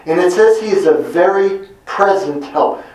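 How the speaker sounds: very lifted and leaned on hard; stress on very. Shown as a demonstration. Preacher to his listeners, very present help stressed. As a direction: press the word very in very present help. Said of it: "Notice the emphasis".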